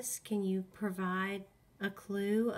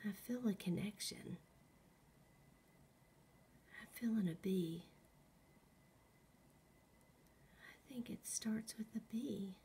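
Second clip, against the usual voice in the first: talking to a ghost; 7 dB quieter than usual. Real, not acted. Whispering to a ghost.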